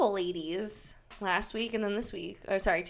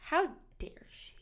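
mock outrage; 5 semitones higher, 6 dB quieter than usual.

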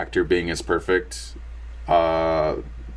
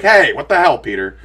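mock angry scolding, louder and higher; angry Uncle Ben; 4 semitones higher, 6 dB louder than usual. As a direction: play the uncle snapping at his nephew, half in jest. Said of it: "he gets a little angry at, at Peter".

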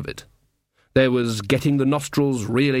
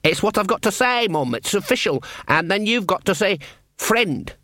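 much higher, earnest lad's voice; eager young guard; 7 semitones higher than usual. Acted. Young guard greets his mum below, high and eager. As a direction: play the keen, simple boy soldier. Sean explains the password.

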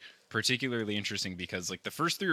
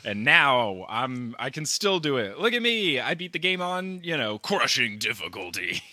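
boastful Shakespeare; 3 dB louder than usual. Retold or imitated. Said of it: "I think he's just deciding".

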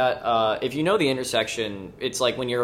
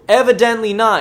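dry retort; 9 semitones higher, 9 dB louder than usual. Retold or imitated. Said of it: "And I go".

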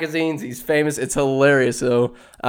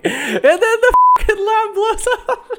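laughing. Real, not acted. Laughing through the punchline.

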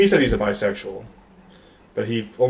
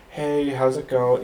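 slightly higher, slow, put-on greeting; mock code switching; 4 semitones higher, slower than usual. Friend's mom greeting his white parents, light imitation of code switching. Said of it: "you're trying to be white".

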